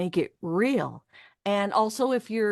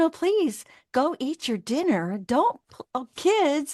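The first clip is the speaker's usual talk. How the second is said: put-on, higher-pitched mother voice; 5 semitones higher than usual. Showing how she places different voices by pitch, higher-pitched mom voice. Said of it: "My mom is up a little higher".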